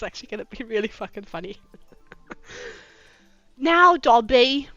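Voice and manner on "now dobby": slow, lightly put-on English accent. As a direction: attempt an English accent, drawn out. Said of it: "I'm doing fucking English voice".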